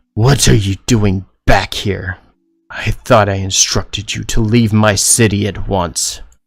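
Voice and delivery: low, deep, furious, very loud bellow. Narrator voicing a woman character in the scene, deep angry voice. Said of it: "her voice deep and angry".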